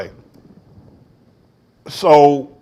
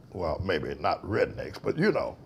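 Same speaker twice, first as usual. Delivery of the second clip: ordinary delivery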